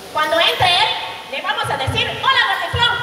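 a hint of schoolkid mischief; lightly voiced scheming kid. Kids plot to mock Eric. (voz aguda de niño tramando)

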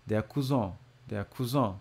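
"Der Cousin" said the French way, nasal end with no n; French-style pronunciation. Shown as a demonstration. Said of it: "uma pronúncia, parecida mais com o francês".

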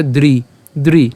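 "দ্রি" slowly as one dri syllable; syllable demo. Shown as a demonstration. Teacher showing how it is pronounced, "দ্রি" as dri. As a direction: sound "দ্রি" alone, d and r joined. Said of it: "এটার উচ্চারণটা কেমন হবে?".

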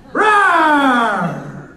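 roar, half laughing; laughing lion roar. Pretend. Comic playing a roaring lion.

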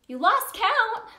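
high, slow playful gasp of surprise; surprised. Acted. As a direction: act amazed the child lost count. Child lost count of teeth.

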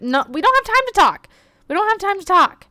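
mock panicked character; voicing the character. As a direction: play the desperate man dodging talk. Voicing a rushed game character.

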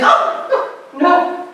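high-pitched laughing retort; hysterical laughter. Retold or imitated. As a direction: laugh through it, imitating a highly amused mother. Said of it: "And she hysterically laughed".

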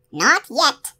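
put-on high, sharp old witch voice; an old crone refusing the moment; witch muttering. A narrator's reading. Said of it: "she muttered at last".

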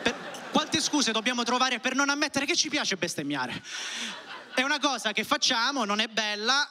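talking through a laugh, pitch up; giggling while getting the words out. Real, not acted. Comic laughing at own confession.

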